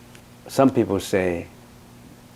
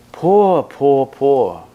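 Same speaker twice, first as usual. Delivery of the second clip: mock pity; 3 semitones higher, 4 dB louder, much slower than usual. Real, not acted. Pitying a student's clinging.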